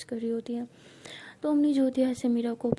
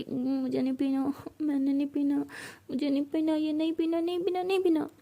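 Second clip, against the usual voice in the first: put-on childish refusal; 3 semitones higher than usual. Drunk Meera refuses drink.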